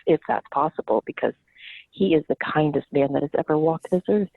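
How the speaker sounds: a hint of mom's low voice; mom's smoker voice. Mom defending her husband to the group, lightly imitated deep voice. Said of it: "she's got this very deep smoker's voice and this very strong Boston accent".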